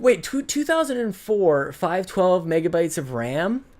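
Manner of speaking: surprised. Real, not acted. Amazed at old PC specs.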